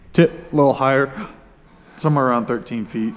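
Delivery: talking through hiccups; hiccuping. Real, not acted. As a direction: hiccups breaking the words. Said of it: "sorry I'm hiccuping".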